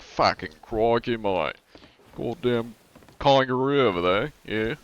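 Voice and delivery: crocodile hunter style Australian accent; exaggerated stereotypical Aussie. Shown as a demonstration. Streamer demonstrating crocodile hunter, exaggerated Australian accent. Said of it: "There's crocodile hunter. It's like".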